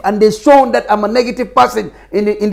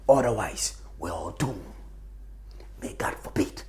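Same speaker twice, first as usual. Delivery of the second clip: whisper; 14 semitones lower, 19 dB quieter than usual. Real, not acted. Pleading prayer after despair.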